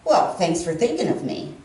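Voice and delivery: low, put-out sarcasm; sarcastic thanks. Retold or imitated. Cousin misreads her thank-you text, sarcastic. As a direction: thank them as if slighted. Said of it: "He must have read my text reply as".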